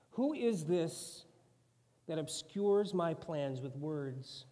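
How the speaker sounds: slow, weighty reading of God's words; scripture reading. Acted. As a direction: read it with solemn majesty. Reading God's speech from Job.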